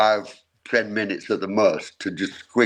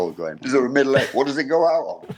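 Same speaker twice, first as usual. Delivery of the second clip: band chorus of questions; 2 semitones higher, faster than usual. Retold or imitated. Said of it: "This is the band all going".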